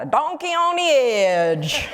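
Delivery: a laugh breaking into the punchline. Retold or imitated. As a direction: land the joke while cracking up.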